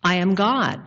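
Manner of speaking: low, lightly voiced God. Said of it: "And the voice says".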